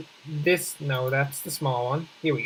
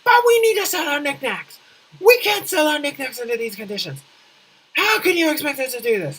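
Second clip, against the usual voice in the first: much higher, frantic shopkeeper whine; hammed-up merchants freaking out, louder; panicked shopkeepers; 10 semitones higher, 4 dB louder than usual. Townspeople complaining to the mayor about selling knickknacks, high mock panic. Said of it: "they'll just start freaking out".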